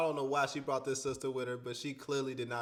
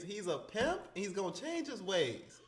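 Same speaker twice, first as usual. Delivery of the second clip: laughing mock repeat; 5 semitones higher than usual. Host repeating the friend's excuse while laughing at it. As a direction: repeat it again, breaking into a laugh.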